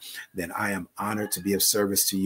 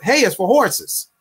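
put-on slow, high childhood chant, lightly done; a hint of a kid's taunt; kids' saying; 11 semitones higher, 6 dB louder, slower than usual. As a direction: recite it like a schoolyard retort, slow. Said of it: "we used to say when we were kids".

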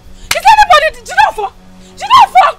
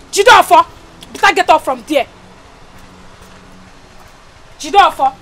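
put-on sharp, loud calls to rouse a drunk husband; angry scolding; 3 semitones lower, 5 dB louder than usual. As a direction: scold him up off the floor.

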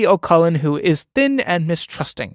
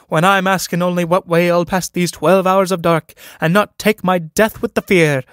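higher, whiny mock of a timid man; mocking imitation of Sean; 4 semitones higher than usual. Pegeen mocks Sean by imitating his timid voice. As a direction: parrot his fearful voice back at him, slowing at the end. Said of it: "imitating his voice".

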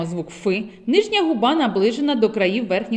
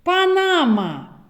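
Панама drawn out slowly, syllable by syllable; slow teacher word; 6 semitones higher, much slower than usual. Shown as a demonstration. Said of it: "зловити звук Ф в словах". (повільно по складах Панама)

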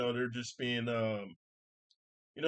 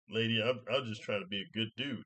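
mild, reasonable tone. Retold or imitated. Man explaining himself to angry lady, mildly. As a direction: explain yourself without fuss. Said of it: "in this tone".

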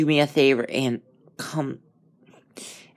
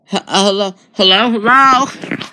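calling out nervously; 8 semitones higher, 6 dB louder than usual. Real, not acted. Nervous player calling into the haunted diner, loud call. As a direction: call into the empty dark.

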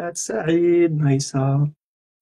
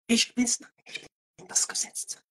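mock German authority; 6 semitones higher, 9 dB quieter than usual. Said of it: "sounds like sehr aggressiv".

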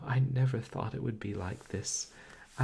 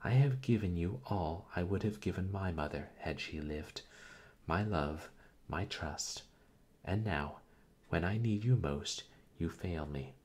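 indignant reproach. Acted.

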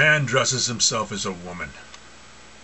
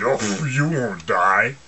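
slow, lightly voiced coaxing devil; tempting devil; much slower than usual. Preacher voices the devil tempting Eve, slow and coaxing. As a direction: coax her slowly, like the serpent. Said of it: "the devil turned around and said".

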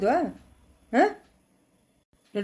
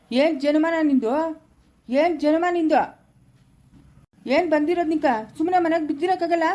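angry scolding; 3 semitones higher than usual. Acted. Father scolding son over temple theft.

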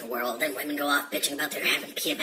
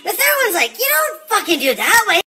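much higher, louder put-on voice for the whole joke; joke-telling voice; 11 dB louder than usual. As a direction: tell the Scotsmen joke in a high, loud comic voice. Joke told in a held put-on voice.

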